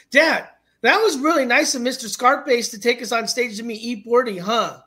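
put-on little kid. Son thanking dad in the Uber, earnest little kid. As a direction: chirp it like a child, "forty" as "pordy". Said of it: "and my son goes".

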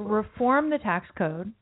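slow, punchy talking points; slow bullet-point delivery. Retold or imitated. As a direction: spell out each word like a talking point. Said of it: "I can deliver them like bullets".

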